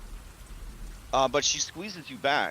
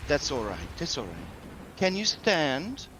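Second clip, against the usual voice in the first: soothing hostess; 2 semitones higher than usual. Acted. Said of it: "She says".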